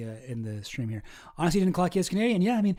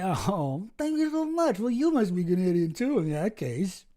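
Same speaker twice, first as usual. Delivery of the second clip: gushing thanks; 2 semitones higher, slower than usual. Pretend. Reacts sweetly to a compliment.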